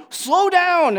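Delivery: high, very loud shouted order; full-voiced warning shout; retold friend's yell. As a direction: imitate a friend hollering at a driver. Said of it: "one of my friends yelled".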